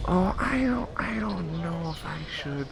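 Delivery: put-on high, timid child voice; squeaky, drawn-out reluctance; reluctant boy.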